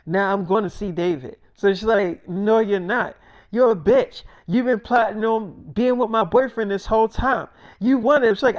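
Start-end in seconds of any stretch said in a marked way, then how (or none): 2.3-8.4 retold argument, higher voice rising in accusation; angry retort. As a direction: throw the accusations at her, acting it out. Acted quarrel over a boyfriend.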